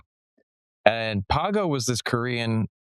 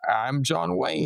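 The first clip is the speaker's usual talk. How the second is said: a hint of Korean-accented cowboy swagger, pitched up; John Wayne, Korean accent; 4 semitones higher, slower than usual. Retelling a schoolmate's impersonation, light Korean-accented John Wayne. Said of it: "he had this accent".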